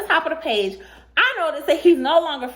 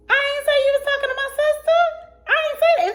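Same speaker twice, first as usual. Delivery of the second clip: heated denial; 13 semitones higher, faster than usual. Retold or imitated.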